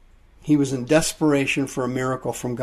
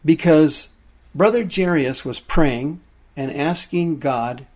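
urgent pulpit appeal to repent; preaching. Acted. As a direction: press the point home to the congregation. Preacher pressing the congregation.

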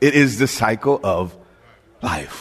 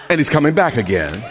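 shout; faster than usual. Real, not acted. Preacher's climax.

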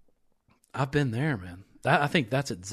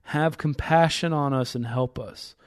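measured, emphatic Bible reading; scripture reading; 4 dB louder than usual. Acted. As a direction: read the passage aloud with building emphasis. Reads scripture aloud.

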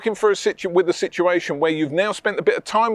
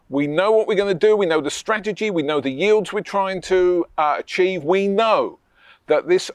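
confident pitch demo. Shown as a demonstration. Coach showing the agent pitch, with conviction. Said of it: "if you're working with me".

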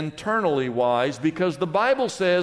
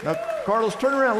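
playful call; 7 semitones higher, much faster than usual. Real, not acted. Calling guard in crowd.

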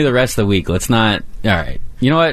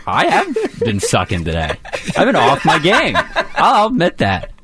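laughing; 4 semitones higher than usual. Real, not acted. Laughing at his own bad day.

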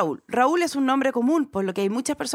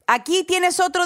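perky chatbot voice; 6 semitones higher than usual. Retold or imitated. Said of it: "dice Bart".

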